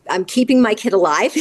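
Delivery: laughing through the words; a rueful chuckle as she says it; wry laugh. Real, not acted. Laughs at own grim memory.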